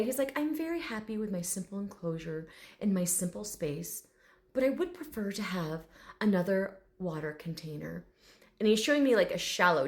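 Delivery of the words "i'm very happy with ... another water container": lightly refined, restrained delivery; proper gentleman. Retold or imitated. Dragon requesting another water container, softly proper. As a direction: make a polite request, a little formally. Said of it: "this very proper gentleman".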